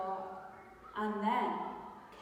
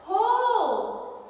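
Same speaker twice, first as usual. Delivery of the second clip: loud, high urging pull; urgent call; 11 semitones higher, 9 dB louder than usual. Acted. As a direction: urge Mouse to pull hard. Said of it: "said Bear".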